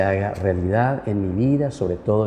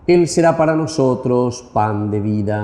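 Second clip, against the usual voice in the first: liturgical prayer. Acted. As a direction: intone it like a priest at mass. Priest intones offertory prayer.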